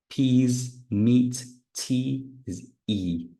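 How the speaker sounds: peas, meat, tea with a long ee; long e sound. Shown as a demonstration. Teacher showing the shared vowel sound.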